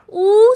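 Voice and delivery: oo with the lips tightly rounded. Shown as a demonstration. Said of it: "start rounding your lips".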